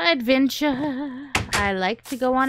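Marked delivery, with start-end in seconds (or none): 0.0-1.3 "adventure." stretched long and slow; slow drawn-out adventure. Pretend. Chanting "adventure." slowly to the villagers. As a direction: savor each syllable of "adventure.".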